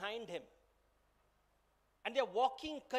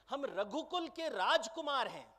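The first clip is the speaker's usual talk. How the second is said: proud, indignant outrage; louder, higher offended outburst; very upset; 3 semitones higher, 4 dB louder, faster than usual. Acted. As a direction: demand respect, deeply affronted. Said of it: "He's very upset and he's saying".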